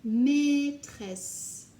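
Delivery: loud bright model of Maîtresse; called out word. Shown as a demonstration. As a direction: call Maîtresse out to the class. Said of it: "teacher word drill".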